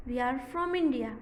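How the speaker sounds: very slow, word by word; slow classroom reading; slow model reading. Shown as a demonstration. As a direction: read slowly for the children. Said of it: "इसी तरह से third one".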